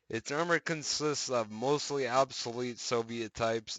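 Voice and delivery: brighter announcer reading voice; news article read. Acted. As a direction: read it like a patch news post.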